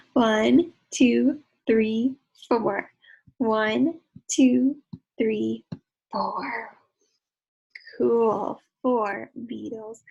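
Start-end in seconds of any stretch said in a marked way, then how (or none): 0.1-6.8 loud counting. Acted. Counting along loudly with kids.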